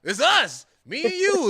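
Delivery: high, slow mock buddy voice; a drawn-out "bruh, it's us"; imitating the other dad. Other dad on the field trip.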